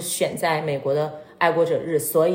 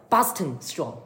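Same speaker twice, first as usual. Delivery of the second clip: Boston accent; 3 semitones lower, slower than usual. Shown as a demonstration. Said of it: "一定要这样说".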